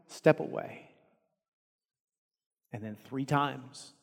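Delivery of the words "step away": loud, high chest-puffed boast, slowing to the end; swaggering vow, pushed up and loud; boastful bravado. Retold or imitated. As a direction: brag like the bravest man in the room. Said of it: "puffed out his chest and said".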